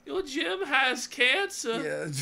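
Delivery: very slow monotone drone. Retold or imitated. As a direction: drag it out, dead flat. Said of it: "in a really monotone voice going".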